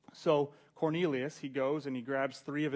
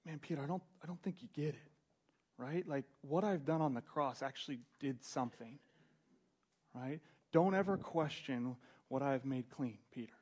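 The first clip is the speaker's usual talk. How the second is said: gentle correction; 3 dB quieter than usual. Acted. God gently correcting Peter, softer and patient. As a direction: calmly set him straight. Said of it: "And God says to him".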